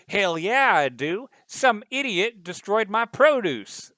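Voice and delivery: loud, high, indignant shouting; angry woman yelling. Acted. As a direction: yell it like an outraged shopper. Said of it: "the woman's like".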